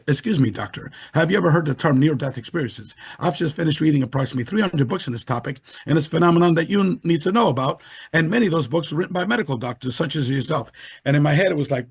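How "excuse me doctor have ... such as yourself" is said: flat robotic voice; even, mechanical monotone. Retold or imitated. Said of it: "It was like a robotic voice".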